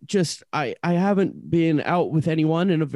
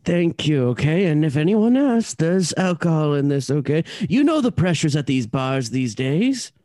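louder, pressing request; urgent pleading; 2 semitones lower, 3 dB louder than usual. Acted. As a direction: insist he keep the secret. Urgent plea to keep secret.

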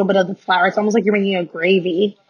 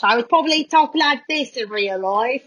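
put-on British accent; 3 semitones higher than usual. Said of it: "I think if I was British".

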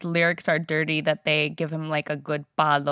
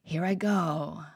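mock Nicole Kidman accent; 3 semitones lower, 5 dB quieter than usual. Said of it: "she's like".

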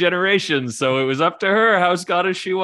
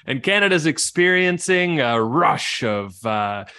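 game master opening the scene, measured and slightly slow; story narration. A narrator's reading. Game master introducing the Wallace family, storyteller cadence.

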